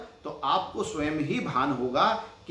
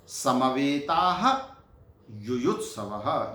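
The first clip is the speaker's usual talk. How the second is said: slow recitation; 2 semitones lower, slower than usual. Shown as a demonstration. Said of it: "teacher recites separate words".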